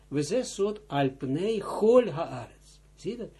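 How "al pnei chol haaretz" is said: chol said with a rasping ch after pnei; throaty ch. Shown as a demonstration. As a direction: chol with a guttural ch, slow. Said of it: "Ik spreek het uit, chol haaretz".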